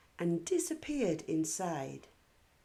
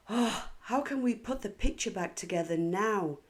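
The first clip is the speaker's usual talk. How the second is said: angrily; 4 semitones higher, 4 dB louder, faster than usual. Acted. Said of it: "said Katie angrily".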